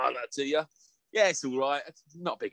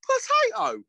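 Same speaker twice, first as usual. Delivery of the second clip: high, loud cry of the food name; mock food announcement; 5 dB louder, slower than usual. Mimicking the TikTok eater shouting his food, high and loud. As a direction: yell the word like a game-show host. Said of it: "he's like".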